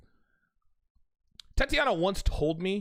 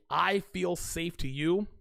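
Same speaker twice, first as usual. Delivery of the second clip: imitating her tender line; slower than usual. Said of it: "When a woman says this to me".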